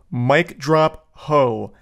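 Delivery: slow, drawn-out mock mic drop; mock dramatic. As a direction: savor each word like a smug exit. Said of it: "This guy just typed out".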